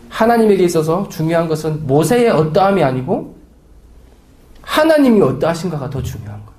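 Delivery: ordinary talk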